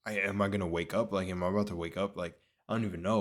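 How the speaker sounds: quick, tumbling self-questioning; retold panicky rambling. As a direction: fire off the worried questions, mildly rattled. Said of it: "actually tweaking in the dream".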